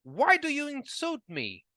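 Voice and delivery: put-on a hot-tempered old man flares up; angrily. A narrator's reading. Geppetto confronts the carpenter, angry and high. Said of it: "said to him angrily".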